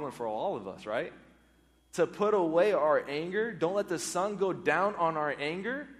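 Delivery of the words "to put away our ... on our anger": louder, raised preacher's exhortation; preaching loudly. Real, not acted. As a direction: drive it home to the congregation. Preacher urging the congregation.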